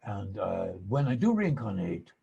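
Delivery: sly, halting mock accent, mostly hushed; playful hint of the Dalai Lama's accented English. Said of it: "he looks at me with this sly look".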